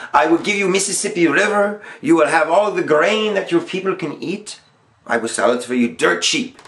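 lightly put-on vague foreign accent as Napoleon; a hint of a hammed-up foreign emperor's accent; teacher playing Napoleon in a mock, unplaceable foreign accent; Napoleon's unplaced accent. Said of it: "I don't know what accent this is".

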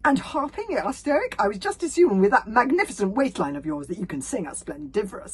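high, loud rising question; eager question. A narrator's reading. Stoic asking the hero about music, eager. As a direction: ask with keen interest.

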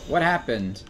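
sharp high startled yelp; startled what. Real, not acted. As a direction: jump at the shock. Sudden shock in game.

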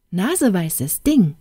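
mild indignant exclamation; exclaimed indignantly. Acted. Fairy indignantly scolding the nosy princess. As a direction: scold her lightly as cheeky. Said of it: "rief die Fee aufgebracht".

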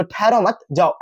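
"ठहरो मत" as one phrase, comma pause, then "जाओ"; pause after मत. Shown as a demonstration. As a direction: break after मत, set जाओ apart. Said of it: "के बाद कॉमा लगा देंगे".

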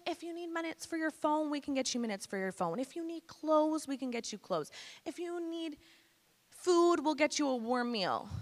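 high-pitched Hungarian lady voice; Hungarian accent. Retold or imitated. Hungarian lady offering help to a teenager, high accented voice. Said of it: "Hungarian lady with a thick accent".

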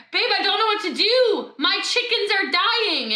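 worried farmer. Acted. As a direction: plead lightly to a partner in mock distress. Voicing worried farmer to husband.

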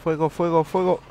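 high shouted fire command; shouting orders over battle. Pretend. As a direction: bark the order to open fire. (gritando órdenes en la batalla)

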